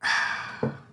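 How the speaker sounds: contented exhale after a hot sip; satisfied sigh after sip. Real, not acted. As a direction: breathe out, pleased with the coffee. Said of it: "a sip of my coffee".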